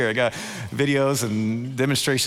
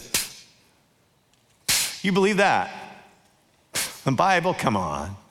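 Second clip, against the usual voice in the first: dismissive pff scoff; mock disbelief, brush it off. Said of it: "Other translations say scoff".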